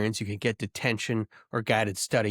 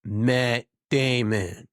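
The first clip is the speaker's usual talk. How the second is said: a drawn-out, slow Matt Damon name call; much slower than usual. Retold or imitated. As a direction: stretch the name out slowly like a movie line. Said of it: "every role Matt Damon has ever had".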